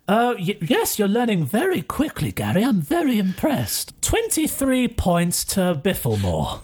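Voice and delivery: lightly voiced teacher awarding points; impressed professor. Professor rewarding a new pupil, mildly grand praise.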